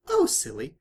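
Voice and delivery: very high, loud giddy squeal; squealing Pinkie Pie. A narrator's reading. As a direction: squeak it out like a delighted pink pony.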